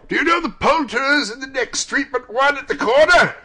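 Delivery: high, loud, excited question; eager calling. A narrator's reading. Scrooge asking the boy about the poulterers, calling out. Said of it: "Scrooge inquired".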